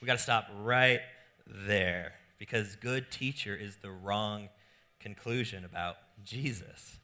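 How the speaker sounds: Jesus gently stopping the man; gentle correction. Acted. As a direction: correct him kindly, no edge. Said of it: "Jesus responds gently".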